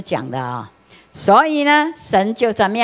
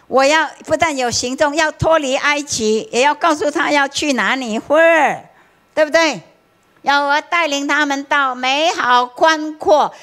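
voice of God; 7 semitones higher than usual. Retold or imitated. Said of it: "神说".

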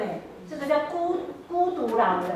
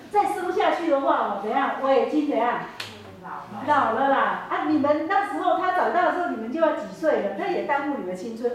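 put-on insistent old mother-in-law; 3 semitones higher, 5 dB louder than usual. Naomi urges daughters-in-law home.

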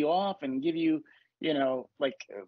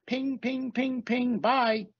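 dismissive zapping; 5 semitones higher, much slower than usual. Acted. Flicking bad thoughts away.

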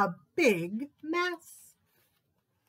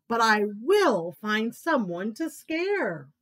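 slow, louder, determined; determined little tiger; 4 dB louder, slower than usual. Acted. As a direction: vow it like a stubborn cub.

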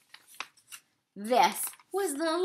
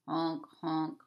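goose honks; 8 semitones lower, 7 dB quieter than usual. Acted.

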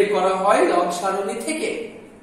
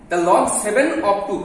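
slow reading aloud; 2 semitones lower, much slower than usual. Shown as a demonstration. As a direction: read it out slowly, word by word. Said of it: "আমরা ইংলিশে পড়বো". (ধীরে ধীরে ইংরেজিতে পড়ে দেখানো)

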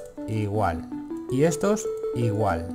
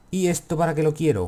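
higher, silly puzzled question, falling at the end; mock mysterious; 5 semitones higher than usual. Real, not acted. Player wonders what the item is for, mock mysterious. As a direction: ask it with goofy mystery. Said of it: "qué misterioso soy siempre".

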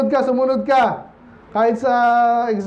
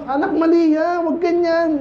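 higher-pitched mock scolding, a hint of a stern father; 7 semitones higher than usual. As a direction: play the father correcting his kid. Father correcting child voiced. (mahinang gaya ng tatay na nagsasaway)

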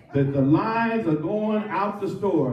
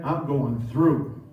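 "going through" dragged out, weight landing on THROUGH; stress on THROUGH; 2 semitones lower, slower than usual. Acted. Answering "how you doing" while stuck in stuff, stress on THROUGH. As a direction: lean slowly on THROUGH, as someone weighed down. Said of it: "the emphasis on the through".

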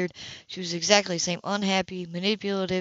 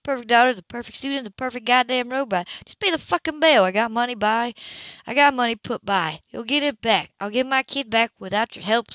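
bitter anger; 3 semitones higher than usual. Acted. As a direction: spit scorn at the perfect sister. Sisters quarrel, Gloria lashes out.

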